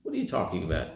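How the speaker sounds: a touch of disdain. Retold or imitated. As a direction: brush off the offer, low and soft. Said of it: "looks at him with disdain".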